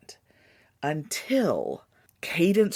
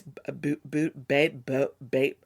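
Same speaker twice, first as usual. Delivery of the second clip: stuttering; 2 semitones lower than usual. Shown as a demonstration. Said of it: "it sounds like I'm stuttering".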